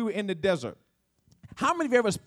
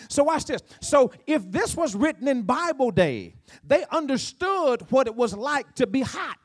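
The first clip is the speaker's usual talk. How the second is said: raised, higher-pitched sermon delivery; impassioned preaching; 5 semitones higher, 4 dB louder than usual. Real, not acted. Preacher explaining shade and shadows to congregation, impassioned. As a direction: preach it emphatically, punching key words.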